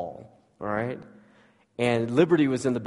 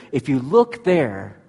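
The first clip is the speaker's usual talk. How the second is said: slow and a bit louder, leaning on look; slow, emphatic call; 5 dB louder, slower than usual. Acted. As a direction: call slowly to look there. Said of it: "But he says".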